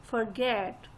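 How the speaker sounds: forget with a quick for and a full, falling GET; stress on GET. Shown as a demonstration. Teacher joining the syllables for learners, stressing GET in forget. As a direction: put the weight on the end of forget. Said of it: "get पे stress था".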